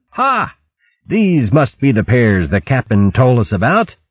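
high "Ha!", then a mild call. Acted. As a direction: call out so a hidden listener overhears. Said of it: "calling out aloud".

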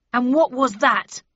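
slow, loud, stern question. A narrator's reading. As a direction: demand it with authority. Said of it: "asked the bellman sternly".

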